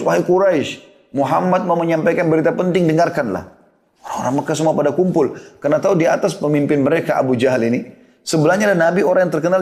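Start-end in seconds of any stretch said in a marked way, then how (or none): 0.0-3.5 retold summons to a crowd, not truly shouted; mock calling out. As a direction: call the people to listen, mildly acted. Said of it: "lalu berteriak dari atas Bukit".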